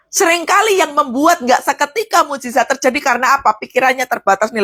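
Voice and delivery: ordinary talk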